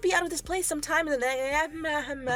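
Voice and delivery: giggling through the line; laughing through. Real, not acted. Narrator failing a line while laughing. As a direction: try to read it while cracking up. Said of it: "laughs this line is".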